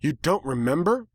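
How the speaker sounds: high, offended put-on voice; indignant villainess. A narrator's reading. The villain stunned the human forgot her, offended. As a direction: demand it, insulted.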